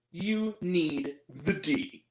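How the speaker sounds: slow, soft come-on, a touch seductive; mock-seductive movie line; sultry quote. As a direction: drag it out low and slow like a bad pickup line. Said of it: "She turns to her and says".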